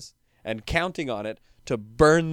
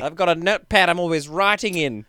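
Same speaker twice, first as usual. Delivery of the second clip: put-on Australian accent; 4 semitones higher, 3 dB louder than usual. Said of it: "my accent was sort of like New Zealand, Australia".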